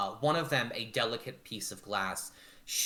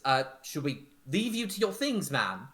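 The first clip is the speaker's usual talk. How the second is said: higher, hesitant polite question; timid maid; 4 semitones higher, 4 dB louder than usual. Acted. Nancy asking whether to leave her mistress, timid and high. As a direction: ask it tentatively.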